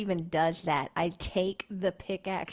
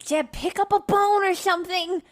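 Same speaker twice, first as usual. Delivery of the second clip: high, raised in-character call; urgent urging; 8 semitones higher, 4 dB louder than usual. Acted. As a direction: call out to goad a frightened friend. Player urges frightened character to fight.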